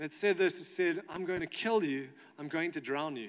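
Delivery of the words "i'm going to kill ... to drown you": strange, dark, eerie inner-sounding voice. Retelling a threat heard while swimming back to shore: imitating a dark, weird voice. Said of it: "this dark, um, weird voice".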